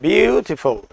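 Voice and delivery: ब्यूटीफुल with a lengthened first "byoo"; syllable demonstration. Shown as a demonstration. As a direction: stretch the first syllable of ब्यूटीफुल, then finish "ti-ful". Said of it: "कैसे बोलेंगे?". (ब्यूटीफुल का पहला हिस्सा "ब्यू" खींचकर)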